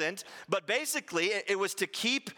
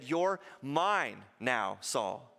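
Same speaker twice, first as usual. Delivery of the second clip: slow, low and tender; tender claim; 5 semitones lower, much slower than usual. Acted. Jesus tells Saul he now belongs to him, slow and tender. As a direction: lay claim to him gently and slowly.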